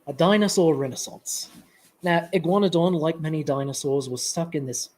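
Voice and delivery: British accent drifting towards Australian; Australian-sounding British accent. Shown as a demonstration. Presenter dared mid-talk to do British, Australian-tinged British accent. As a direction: attempt British, land closer to Australian. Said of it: "Do a British accent".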